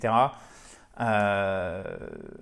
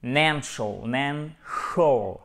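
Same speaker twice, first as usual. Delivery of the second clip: FINANCIAL broken down, "NAN... shul"; slow syllable-by-syllable "nan-shul"; stress on NAN; much slower than usual. Shown as a demonstration. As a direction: draw out the end of "financial" slowly, NAN stressed. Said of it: "notre accent tonique ici".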